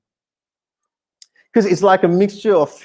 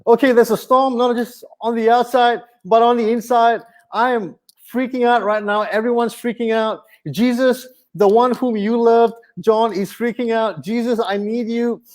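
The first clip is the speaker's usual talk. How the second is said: lightly panicked, higher voice; Peter freaking out; 5 semitones higher than usual. Retold or imitated. Peter on the boat begging Jesus, mock panic. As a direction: imitate a frantic Peter pleading. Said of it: "I can just imagine Peter on that boat".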